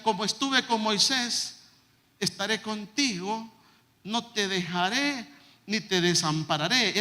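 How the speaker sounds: slow, solemn reading of God's promise; solemn scripture reading. Retold or imitated. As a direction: read it slowly like a sacred promise. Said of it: "el Señor me decía". (lectura solemne y lenta)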